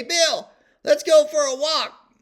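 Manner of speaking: high, drawn-out holler from afar; calling out. Retold or imitated. Wife yelling up to her husband on the balcony, calling out. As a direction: yell up from the beach, stretching it out. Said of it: "Cindy'd yell down from the beach".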